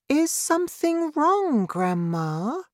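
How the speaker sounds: put-on high, gentle boy's question; kindly asking. A narrator's reading. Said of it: "George asked kindly".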